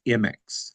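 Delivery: M X said plainly as "em-ex"; correct pronunciation. Retold or imitated. Guest quoting the written reply, M X pronounced "em-ex". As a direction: begin M X with "em", then "ex". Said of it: "we do say it as".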